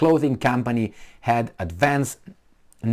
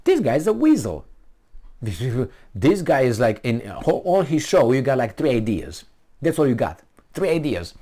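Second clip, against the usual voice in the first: retold scorn; 3 semitones higher than usual. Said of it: "I said".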